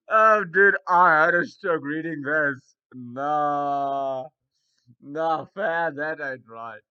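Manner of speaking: loud amused outburst; laughing disbelief. Real, not acted. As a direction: shout it through the laugh. Laughing reaction to post.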